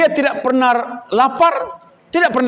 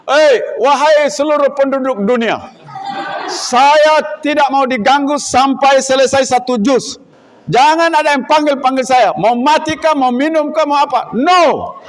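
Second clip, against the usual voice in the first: mock proclamation; 5 semitones higher than usual. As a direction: proclaim it like a grand decree, hammed up. Student declares he won't be disturbed.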